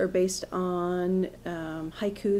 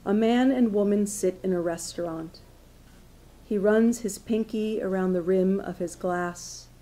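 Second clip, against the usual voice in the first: measured recital with lightly voiced dialogue; poetry reading. Poet reads a restaurant dialogue to an audience, measured recital. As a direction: read the couple's exchange as verse. Reads own poem aloud.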